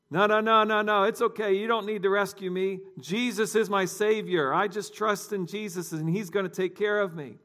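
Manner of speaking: high, loud insistent no; drowning man shouting up that Jesus will save him; emphatic refusal. Acted. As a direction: wave off the rescuers with stubborn cheer. Drifter refuses the rope.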